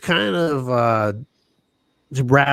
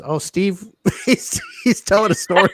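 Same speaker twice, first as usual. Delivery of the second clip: third-person talker mock; 5 semitones higher than usual. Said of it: "talk in the third person".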